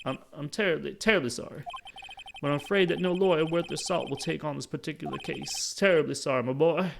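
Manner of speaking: pompous, blustering apology; grand old lawyer refusing emphatically; Marvin Grossberg. Acted. Lawyer declining the case, pompously apologetic.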